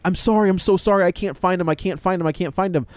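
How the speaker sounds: lightly mimicked crying, no sobs; retold tearful pleading. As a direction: imitate a tearful, flustered apology. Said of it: "crying and, like".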